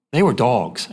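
low-pitched, belittling "dogs"; dismissive, little-d dogs. Shown as a demonstration. Preacher explaining dogs' lowly status to congregation, dismissive. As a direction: drop the pitch to demote the dogs. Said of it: "I say that with a little d".

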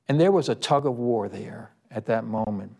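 ordinary delivery

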